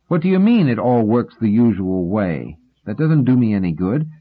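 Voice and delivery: a caller losing patience with the operator; exasperated. Acted. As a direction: push back at the unhelpful voice on the line. Arguing with the phone operator.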